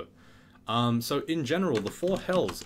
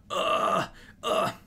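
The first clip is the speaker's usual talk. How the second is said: mock dying groan; 10 semitones higher than usual. Acting out feeling of dying.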